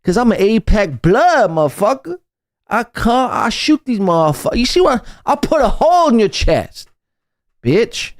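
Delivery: lightly voiced tough guy; mock gangster. Host riffs as a fake Apex thug, lightly voiced. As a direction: pretend menace, half-joking. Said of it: "why are you speaking like this".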